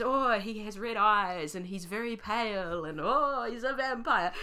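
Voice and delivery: high, slow mock gushing; a wide-eyed gush, hammed up; mock naive gushing. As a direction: ham up a wide-eyed reader. Mocking naive reader voice.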